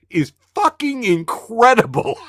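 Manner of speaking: high, laughing disbelief; can't stop laughing at it; laughing amazement. Real, not acted.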